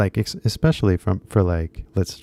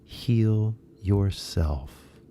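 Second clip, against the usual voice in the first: slow guru voice; 3 dB quieter, much slower than usual. Retold or imitated. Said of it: "the guru simply said in a letter".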